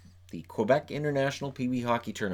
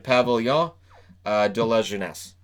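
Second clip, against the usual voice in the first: French name in an English accent; 4 dB louder than usual. Real, not acted. Host naming a Quebec venue, English-accented French. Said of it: "apologize for my English accent over it".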